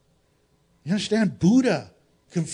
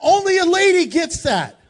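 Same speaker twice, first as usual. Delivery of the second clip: laughing loudly, pitched up; 10 semitones higher, 7 dB louder than usual. Real, not acted. Preacher laughing at his own joke with the women. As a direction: laugh it out to the ladies.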